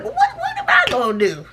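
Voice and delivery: high, lightly voiced flustered mom; high mock mom asking what to do; mom impression. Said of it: "she would have been like".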